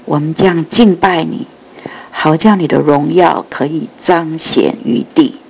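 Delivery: earnest spoken prayer. Real, not acted. Opening prayer. (虔诚祷告)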